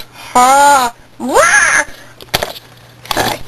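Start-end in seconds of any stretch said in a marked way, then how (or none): 0.0-1.8 playful. Pretend. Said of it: "He goes".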